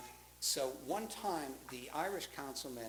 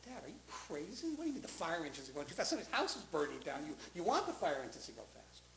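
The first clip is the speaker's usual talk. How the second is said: quick, raised-pitch disbelief; retold incredulous protest; 4 semitones higher than usual. Son to his dad over the fire engines, incredulous. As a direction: question Dad as if he's lost it.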